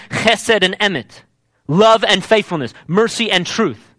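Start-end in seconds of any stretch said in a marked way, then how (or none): 0.1-1.2 chesed with a guttural ch, slow; chesed and emet said slowly in Hebrew style; Hebrew pronunciation. Shown as a demonstration. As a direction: scrape the start of chesed in the throat, unhurried. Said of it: "that's actually how you're supposed to say it".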